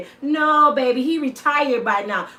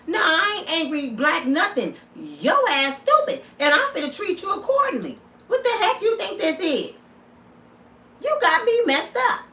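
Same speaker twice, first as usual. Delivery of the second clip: heated; 5 semitones higher than usual. Real, not acted. Rant against being called angry.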